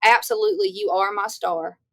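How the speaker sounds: absolutely jumps way up high, then slows down; thrilled reply. Retold or imitated. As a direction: gush it like a delighted star. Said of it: "I was just like".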